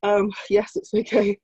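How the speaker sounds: whispered through chattering teeth. Real, not acted. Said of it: "my teeth are chattering".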